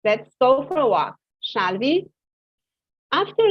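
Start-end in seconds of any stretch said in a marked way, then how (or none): 0.0-2.1 "shall we?" lifting up at the end; rising tag. Shown as a demonstration. Teacher suggesting a walk to the class, rising. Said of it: "The voice goes up in this case".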